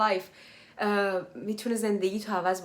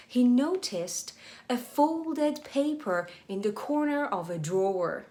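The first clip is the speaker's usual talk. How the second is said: slow reading; much slower than usual. Shown as a demonstration. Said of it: "slow English reread for learners".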